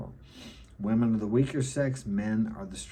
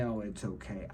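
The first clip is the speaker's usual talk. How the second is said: soft, half-hearted reassurance in his own voice; insincere comforting; 7 dB quieter than usual. Retold or imitated. Father picking up his crying son, half-hearted insincere comforting. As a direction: comfort grudgingly, without a mother's tenderness. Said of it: "And it's not very sincere".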